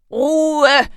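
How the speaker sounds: drawn-out, forceful teacher's shout; shouted command. A narrator's reading. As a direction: shout the class down. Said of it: "schrie Herr Groll noch einmal".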